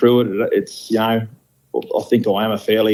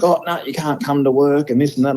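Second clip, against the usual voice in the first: higher, alarmed retelling of the boss; panicky supervisor; 5 semitones higher than usual. Retold or imitated. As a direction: imitate a flustered supervisor blurting it out. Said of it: "And he's like".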